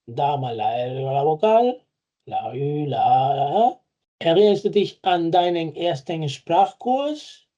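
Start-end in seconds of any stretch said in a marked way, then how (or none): 4.2-7.5 slow, careful German example; deliberate teacher pace; slow model sentence. Shown as a demonstration. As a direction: read it slowly for learners. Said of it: "Sich erinnern".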